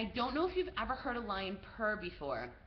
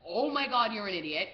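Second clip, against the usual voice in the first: tag; 7 dB louder than usual. Retold or imitated. Companions against wall, horrified.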